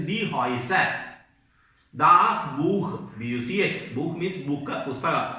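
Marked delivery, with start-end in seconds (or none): 0.1-0.9 "Häuser" said as HOY-sa; pronunciation demo. Shown as a demonstration. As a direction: show learners the "oy" sound in "Häuser". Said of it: "അതിന്റെ pronunciation". ("Häuser" എന്നതിന്റെ ഉച്ചാരണം "ഹോയ്സ" എന്ന് പഠിപ്പിക്കുക)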